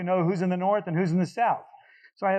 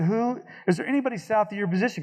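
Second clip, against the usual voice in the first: urgent radio question; 6 semitones higher than usual. Retold or imitated. Pressing JTAC on radio.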